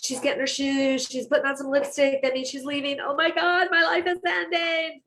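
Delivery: a dramatic dog spiralling into hysteria; panicking dog voice. Pretend.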